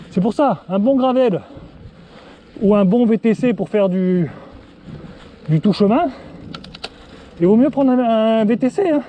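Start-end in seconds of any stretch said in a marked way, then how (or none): 5.5-9.0 out of breath. Real, not acted. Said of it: "Ouf, je souffle".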